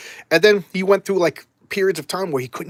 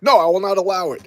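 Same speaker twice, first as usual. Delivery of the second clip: high, loud acted protest; hammed-up fatherly defiance; defiant refusal; 5 semitones higher, 6 dB louder than usual. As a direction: forbid it dramatically. Father forbids his daughter's death.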